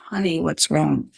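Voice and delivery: soft, gentle kind stranger; a soft, caring call from behind; softly voiced kind woman; angelic voice. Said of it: "this angelic voice behind me says".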